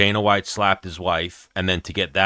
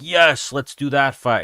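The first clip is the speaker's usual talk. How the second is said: cheering crowd, pitched high and louder; excited crowd; 7 semitones higher, 5 dB louder, slower than usual. Retold or imitated. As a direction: imitate a fired-up crowd yelling yes. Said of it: "the crowd would be like".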